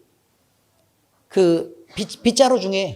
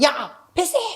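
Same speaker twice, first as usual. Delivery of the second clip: higher-pitched imitation of a boy calling out; mock shout; 5 semitones higher, 3 dB quieter, slower than usual. Fourth-grader yelling at older boys for a pass, mock shout. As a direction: call for the ball without full volume. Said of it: "막 소리 지르면서".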